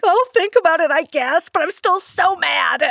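high, whiny grudging concession; sulky mock anger. Hurt friend grudgingly giving in, playfully sulky. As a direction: huff it high, like a sulking kid.

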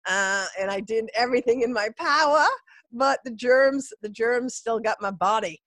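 blocked nose from a cold; stuffy nose. Real, not acted. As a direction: talk through a stuffed-up nose. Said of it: "I sound a little stuffy, sound a little sniffly".

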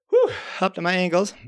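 breathless laugh at the cold; laughing gasp. Retold or imitated. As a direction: laugh it out, freezing. Laughs at icy water.

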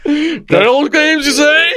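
hammed-up mock offence, breaking into laughter; mock posh indignation. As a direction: pretend to be affronted, then crack up. Mocking an offended Brit.

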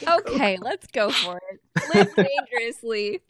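high, loud cheeky request; high squeaky character voice, playful; high Winley voice. Acted. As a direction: ask sweetly in a tiny high voice.

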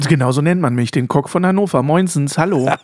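gravel-rasp voice like a heavy smoker; raspy voice. Acted. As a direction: rasp every word out. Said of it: "so eine Reibeisenstimme heute".

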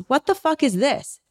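high mock outraged snap at the server; mock indignant yell; rude man's outburst. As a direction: play the entitled guy yelling at the server. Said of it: "he goes".

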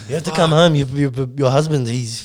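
put-on French accent with halting repeats. French neighbour phoning about the injured man, halting French accent. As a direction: play a Frenchman hesitantly breaking news in English. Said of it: "That was a good accent".

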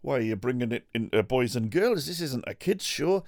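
bouncy northern cookery-show host; high Hairy Biker voice. Pretend. Playing one Hairy Biker to the other, high and loud.

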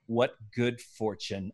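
slow dry deadpan, no lift; total deadpan. Retold or imitated. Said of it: "this total deadpan".

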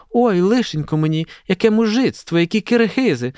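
high-pitched indignant squeal. A narrator's reading. Olha complains to her mother after being jostled, squealing. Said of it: "пищала Ольга".

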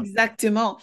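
mock French flourish; French accent, savoring it. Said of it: "A French accent".

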